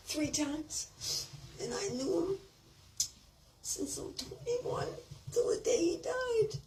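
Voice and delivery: high, strained and tearful; fighting back sobs; crying. Real, not acted. Telling how Frank kissed her, crying. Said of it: "I'm laughing and crying like now".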